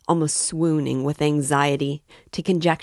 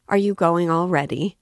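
a touch higher and louder, amiably surprised; amiable; 4 semitones higher, 6 dB louder than usual. A narrator's reading. Porfiry to Raskolnikov as he rises, amiable. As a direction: keep him from leaving with overdone warmth. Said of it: "Porfiry said amiably".

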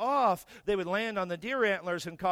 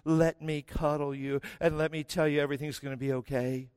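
baby the child mockingly; mock coddling parent; 3 semitones lower than usual. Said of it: "and you go".

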